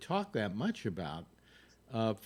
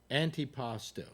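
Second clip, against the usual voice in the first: Boris Karloff impression. Shown as a demonstration. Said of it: "how you can do an impression of Boris Karloff".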